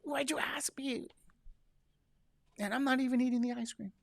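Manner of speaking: mock outrage at the trap; exasperated reply. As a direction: plead in disbelief. Imitating own exasperated reply.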